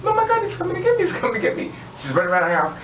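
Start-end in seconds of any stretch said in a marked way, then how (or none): 0.0-1.7 very high squealing imitation of panic; hammed-up terror, pitched way up; mock freak-out. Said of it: "she's freaking out again".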